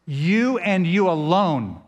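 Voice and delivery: YOU and YOU ALONE leaned on slowly and firmly; emphatic YOU. Shown as a demonstration. Preacher explains emphatic plural to congregation, stressing YOU and ALONE. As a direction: press on each YOU, then stretch ALONE. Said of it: "But it's emphatic".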